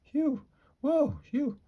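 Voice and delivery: high-pitched "phew, whoa, phew"; high breath-catching whoops. Acted. Catching breath after a gasp.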